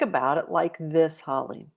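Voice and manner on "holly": ordinary delivery, nothing marked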